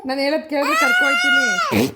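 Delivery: high and loud, pressing the promise. Real, not acted. Mother raising her voice over the crying child, insistent.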